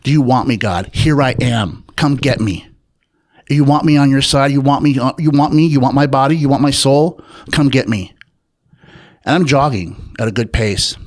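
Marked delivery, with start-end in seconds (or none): 0.0-8.1 louder, challenging shouts, a little higher; retold defiant yelling. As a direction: dare God to come and take you, half shouting. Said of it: "I'm yelling this while I'm jogging".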